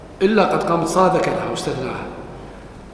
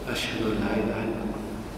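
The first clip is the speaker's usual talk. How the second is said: soft and distant, much softer and lower; as if turned away from the microphone; muezzin stepping away from the mic; 7 semitones lower, 11 dB quieter than usual. Retold or imitated. Mocking a muezzin who backs off the mic, faint and distant. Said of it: "فإذا جاء الترجيع يقول".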